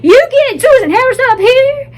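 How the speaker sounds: commanding doctor. Retold or imitated. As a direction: call the staff in like the boss. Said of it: "the day you told me".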